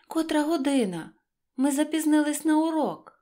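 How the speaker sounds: panicked cry. A narrator's reading. Little hare crying out to the hedgehog, panicked and fast. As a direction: blurt it out, late for school. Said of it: "скрикнув він".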